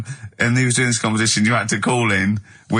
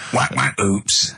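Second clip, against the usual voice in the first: silly sound effects; much slower than usual. Shown as a demonstration. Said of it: "I can do sound effects".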